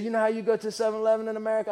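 quick, terrible attempt at broken English; soft, half-hearted broken-English impersonation; Carlos. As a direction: hurry through a badly faked foreign accent. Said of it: "that's probably a terrible impersonation".

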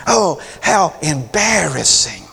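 squirm with snobbish embarrassment; mock embarrassed Pharisee. Pharisee watching the woman, slow prissy disdain. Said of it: "he's going".

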